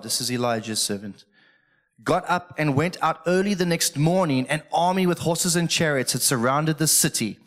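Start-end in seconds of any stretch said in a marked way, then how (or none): 2.0-7.4 raised, declaimed reading voice; scripture reading. Real, not acted. Preacher reading of the army round the city, raised proclamation. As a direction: proclaim the story from the page. Reads scripture aloud to congregation.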